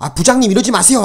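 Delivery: loud, firm, high voice. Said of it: "강하게 얘기할 수 있습니까".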